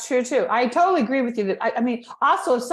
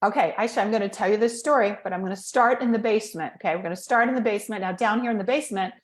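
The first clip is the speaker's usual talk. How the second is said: basement voice; 3 semitones lower than usual. Shown as a demonstration. Coach demonstrating the low step of the staircase. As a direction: keep the voice down in the basement. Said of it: "staircase for speaking goes like this".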